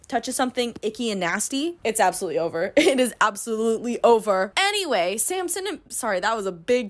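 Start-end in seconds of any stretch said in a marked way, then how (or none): 2.7-4.5 laughing through the words; said through real laughter. Real, not acted. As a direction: giggle out the repeat. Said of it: "repeats line, second take laughing".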